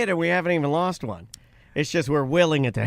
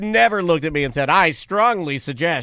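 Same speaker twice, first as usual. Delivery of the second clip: confident advisor. Retold or imitated. Host quotes the historian to a co-host, confidently advising. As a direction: quote an advisor with deliberate weight. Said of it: "I do like the way he says".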